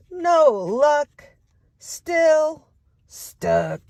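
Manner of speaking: high then breathy sigh of stuck; stuck duck refrain. Acted.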